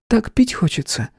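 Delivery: breathy high moan of thirst. Acted. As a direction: moan it out, languid. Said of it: "простонала".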